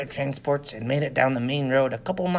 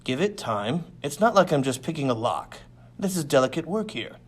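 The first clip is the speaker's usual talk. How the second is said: exasperated. Acted. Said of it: "said Clint in an exasperated voice".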